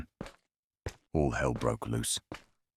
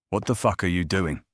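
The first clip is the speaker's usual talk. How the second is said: loud, higher panicked yell; 5 semitones higher, 4 dB louder than usual. Retold or imitated. Father bursting into the room, yelling in panic. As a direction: burst in shouting in alarm. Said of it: "ran into the room and yelled".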